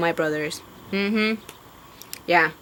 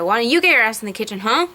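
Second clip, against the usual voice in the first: angry retort. Retold or imitated. To sexist men telling her to get in the kitchen, angry fast comeback. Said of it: "So it's like".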